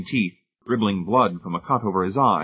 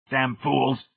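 authoritative boom; 4 semitones higher than usual. Acted. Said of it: "he boomed in his great authoritative voice".

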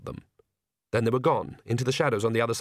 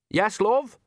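put-on old witch voice; 10 semitones higher, 3 dB louder than usual. Nanny Ogg's spoken lines.

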